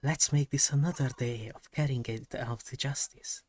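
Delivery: soft unvoiced whisper; ASMR whisper. Shown as a demonstration. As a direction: breathe the line out as a whisper. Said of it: "we really need that A S M R".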